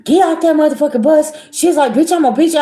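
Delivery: she's lost it, scream her off the bus; furious yell. Retold or imitated. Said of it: "that girl lost it".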